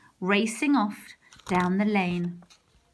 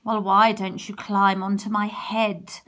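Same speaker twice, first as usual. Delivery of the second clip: smirking; 3 dB louder than usual. Acted. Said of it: "smirked the fox".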